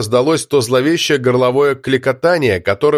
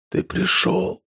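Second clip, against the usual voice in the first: faint weak whisper; 6 semitones higher, 7 dB quieter, much slower than usual. Acted. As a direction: whisper it with last strength. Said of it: "прошептал Данила". (слабый шёпот)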